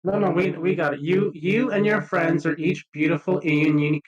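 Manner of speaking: ordinary talk, nothing marked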